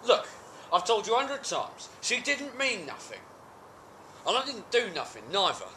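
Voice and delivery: high-pitched, aggrieved denial; indignant protest. Acted. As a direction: plead innocence to a doubting partner. Character protests innocence to partner.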